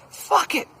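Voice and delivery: high, loud exasperated outburst; frustrated yell. Retold or imitated. Telemarketer giving up on his declined card, frustrated yell. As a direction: yell it out, fed up. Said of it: "Tim gets frustrated, yells".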